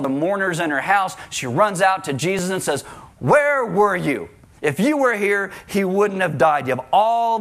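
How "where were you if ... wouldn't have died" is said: anguished sister. Acted. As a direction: let the grief push out as blame. Mary grieving, blaming Jesus.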